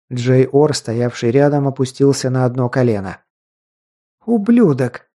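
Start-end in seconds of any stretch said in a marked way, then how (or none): 4.3-5.1 high, sharp cry of rage; furious shout. Acted. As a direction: spit the insult out in fury. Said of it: "выкрикнула девушка". (яростный выкрик)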